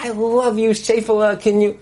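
high, sweetly coaxing voice; mock loving parent. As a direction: imitate a doting parent asking gently. Imagined loving parent, contrasted with yelling.

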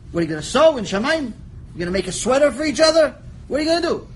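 fast, rising teasing; quick incredulous teasing; mocking questions. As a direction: poke fun at the idea. Mocking angels sewing in heaven.

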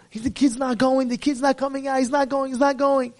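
normal talking voice

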